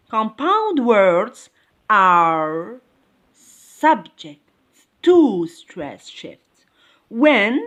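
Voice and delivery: slow dictation, broken into short word groups; slow repeat. Shown as a demonstration. Teacher repeating a rule for the class, slow and segmented. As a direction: repeat it slowly, pausing between phrases. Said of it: "I repeat".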